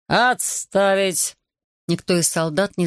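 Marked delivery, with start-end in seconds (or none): 0.1-1.4 booming command. Acted. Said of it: "зычный властный голос".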